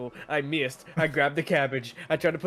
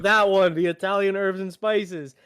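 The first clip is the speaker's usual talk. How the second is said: louder, insistent, laughing through it; mock exasperated customer; exasperated pointing; 4 semitones higher, 5 dB louder than usual. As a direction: jab at the bread and insist. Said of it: "I point to him like".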